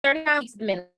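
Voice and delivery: choppy, cutting-out connection; corrupted glitchy audio. Real, not acted. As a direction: audio breaking up on a call. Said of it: "I think the audio is cutting out a bit".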